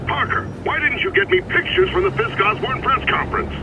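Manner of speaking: phone voice. Acted. Jameson voice on phone.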